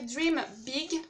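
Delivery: English words in a French accent. Real, not acted. Vlogger reading a notebook's slogan, French-accented English. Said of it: "avec mon super accent anglais".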